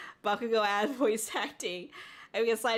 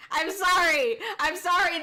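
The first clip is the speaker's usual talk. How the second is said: higher, hammed-up dub delivery; mock an anime dub actor, pushing each phrase; English voice-actor tone; 4 semitones higher, 4 dB louder than usual. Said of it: "It's like English voice actors".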